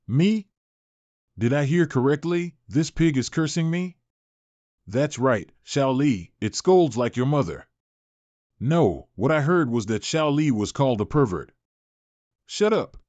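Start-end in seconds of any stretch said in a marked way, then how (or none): 0.1-0.5 a sharp, much higher "Me?" in disbelief; can't believe a pig just cursed him; indignant surprise. Acted. A rival stunned that a pig insulted him, sharply indignant. 12.4-13.0 a high, cutting "shut up"; angry snap. Acted. A rival silencing his companion's chatter, a high irritated snap.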